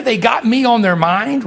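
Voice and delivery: asked with a rising, unsure tune; doubting question. Retold or imitated. Preacher doubting that dead family think of him, rising question. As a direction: wonder aloud whether it can be true. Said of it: "I'm thinking to myself".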